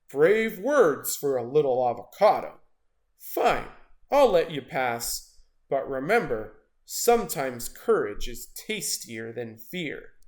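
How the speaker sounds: a big predator granting mercy; amused shark. Acted. Shark grins, lets them pass.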